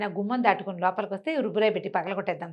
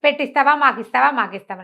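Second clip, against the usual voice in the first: eager thief; 3 semitones higher, 4 dB louder than usual. Acted. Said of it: "అన్నాడు".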